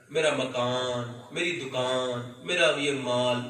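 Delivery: drawn-out, slow list of belongings; slow mimicked clinging to property; possessive listing. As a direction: stretch each possession out, imitating the attached. Mimicking people attached to possessions.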